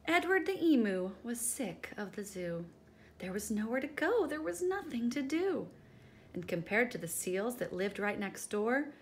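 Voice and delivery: lively read-aloud storytelling voice; story narration. A narrator's reading. Teacher reading the class a picture book, lively. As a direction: read it to the children with bounce.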